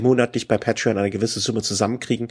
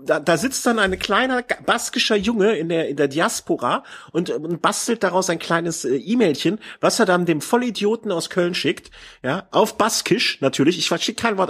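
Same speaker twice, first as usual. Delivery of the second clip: sarcastic storytelling; 6 semitones higher than usual. Real, not acted. Spinning sarcastic fantasy story.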